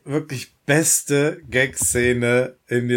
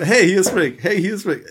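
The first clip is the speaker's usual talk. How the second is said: Rick-Ansage; 7 semitones higher, 4 dB louder than usual. Retold or imitated. Ricks Mailbox-Nachrichten nachgespielt.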